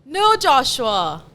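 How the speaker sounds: loud, slow-starting amateur British accent. Shown as a demonstration. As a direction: try a hammed-up British refusal. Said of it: "let me hear your British accent".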